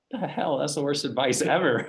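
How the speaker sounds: high, disbelieving scoff; mock the advice as absurd; incredulous scoff. Eighteen-year-old scoffing at manager's advice, incredulous. Teen reacting to odd advice.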